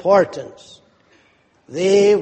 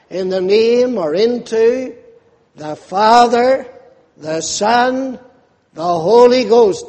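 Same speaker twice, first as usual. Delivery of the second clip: higher and louder, proclaiming the Savior's command; ringing scripture quote; 5 semitones higher, 5 dB louder than usual. Acted. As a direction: proclaim it to the back pews. Preacher quoting Great Commission.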